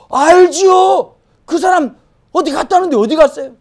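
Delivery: high, loud eager recognition; eager villager. Acted. Villagers hearing news of an old neighbour, eager. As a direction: pipe up as a villager who remembers him.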